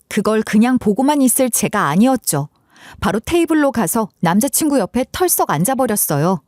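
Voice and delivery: ordinary delivery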